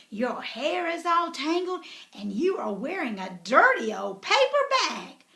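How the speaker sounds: lightly voiced snobbish prince; snooty. Ronald sneering at Elizabeth.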